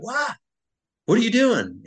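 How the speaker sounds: high, loud, startled yelp of alarm; alarmed shout. Retold or imitated. Buddy catching him about to fire, alarmed high shout. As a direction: jolt up high and shout it in shock.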